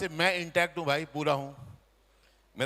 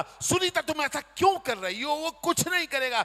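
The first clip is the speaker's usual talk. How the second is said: much higher mock-whiny protest; husband protesting; 9 semitones higher than usual. Husband protests to wife in a high whiny voice. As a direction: squeak out a husband's objection.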